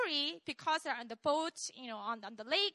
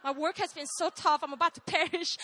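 mock complaint; 5 dB louder than usual. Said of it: "Do you guys ever say that".

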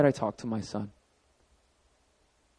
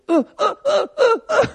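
put-on much higher, louder little-kid uh uh uh; toddler grunts; 6 dB louder than usual. Son pulling dad toward the playroom, eager toddler grunts. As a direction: urge him on like a toddler tugging a hand.

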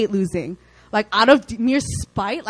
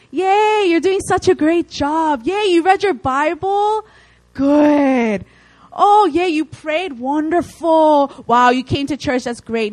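high, loud, gushing mock praise; hammed-up cheering for tiny wins; sarcastic over-the-top applause; mock cheerleading; 5 semitones higher, 4 dB louder, slower than usual.

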